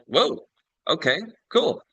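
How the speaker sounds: a high startled whoa, then settling; taken aback by the instant yes; surprised whoa. Retold or imitated. Reacts to daughter wanting it.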